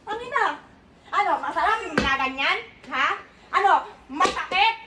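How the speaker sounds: sharp scolding interrogation, pressing each one; angry scolding. Real, not acted. Mother confronting the kids over the video, angry scolding. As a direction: demand answers, jabbing each question.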